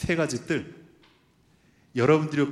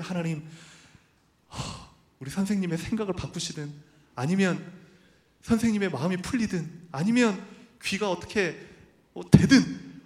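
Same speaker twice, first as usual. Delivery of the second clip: desperate prayer rising; 3 semitones higher than usual. Retold or imitated. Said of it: "막 이렇게 간절히 기도했거든요".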